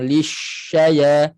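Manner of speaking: LISHAYA slow, SH with protruded lips; pouted shin. Shown as a demonstration. Teacher imitates common habit, pouted shin. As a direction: pout the lips through sh in lishaya. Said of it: "Jangan muncung bibir".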